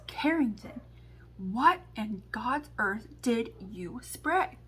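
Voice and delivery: slow, drawn-out mock outrage; a mother's slow, deliberate demand, re-enacted; retold scolding. Mom whips round on her daughter in the car, mock scolding.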